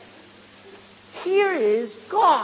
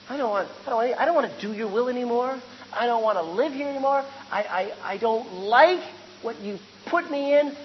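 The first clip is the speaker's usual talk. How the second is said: sulky attitude; 3 dB louder than usual. Acted. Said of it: "That's his attitude".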